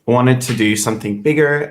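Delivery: ordinary delivery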